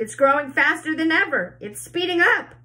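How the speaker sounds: high, loud excited shout. A narrator's reading. Aunt Spiker shouts that the peach is speeding up, high and loud. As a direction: call it out breathless with glee. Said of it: "Aunt Spiker shouted".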